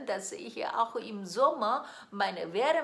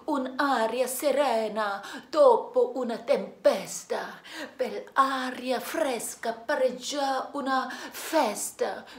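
louder, rhythmic recital of Italian verses; recited lyrics; 4 dB louder than usual. Shown as a demonstration. Singer reciting O Sole Mio lyrics to her viewers, declaimed. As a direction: declaim the song text like a poem, building in force. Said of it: "mit meinem koreanischen Akzent zu rezitieren".

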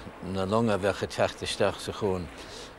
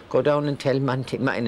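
put-on higher, bossy old landlady giving orders, fast then slowing; imitating Missus Ahern; 6 semitones higher, 4 dB louder, faster than usual. Landlady pranking the young lodger with a silly errand, bossy high mock voice. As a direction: play the fussy landlady sending the lad on a silly errand. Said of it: "is cuoine Missus Ahern".

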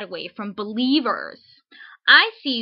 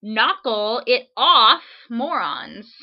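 mock angry yell; 6 dB louder, slower than usual. Reads angry letter aloud.

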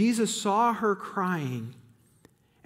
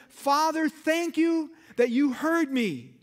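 Jesus praying; 9 semitones higher, 3 dB louder than usual. Retold or imitated. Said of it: "raised his eyes and said".

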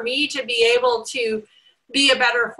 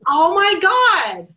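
slow, higher whimper of a lost puppy; 6 semitones higher, 5 dB louder, much slower than usual. Retold or imitated. Owner as a lost puppy, slow helpless moan. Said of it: "like the little lost puppy".

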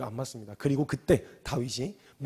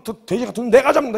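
louder, higher eager threat; acted charge at the enemy; worked-up outburst; 7 semitones higher, 9 dB louder than usual. David bursting forward to fight, worked-up outburst. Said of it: "그랬더니 막 튀어갖고".

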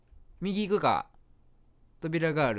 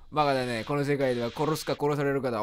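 sinister flower; 5 semitones lower than usual. Acted. Flowey turns evil.

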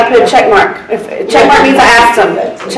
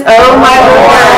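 slow, stretched-out exclamation of disbelief; drawn-out exasperation; much slower than usual. Real, not acted. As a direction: draw every word out in exasperation. Exasperated by Cajun witnesses.

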